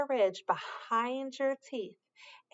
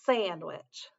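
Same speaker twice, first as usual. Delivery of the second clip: "Sun" with a long hissed s up front; stress the s; 4 semitones lower than usual. Shown as a demonstration. Teacher shows children the first sound, stretched s. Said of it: "Listen for the s sound at the beginning".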